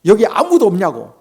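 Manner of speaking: loud retold shout, slightly reined in; retold call-out. Visitor calling into the forest village for anyone, retold shout. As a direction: call out loudly as if retelling it. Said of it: "막 소리를 질렀어요".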